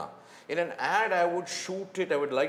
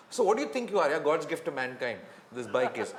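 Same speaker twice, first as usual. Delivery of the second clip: mock scoff. Client's mocking retort retold.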